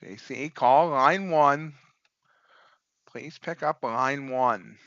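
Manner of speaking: slow, flat announcer page; flat echoey pa page. Pretend. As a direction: page him like a store PA. Mock PA page for J C.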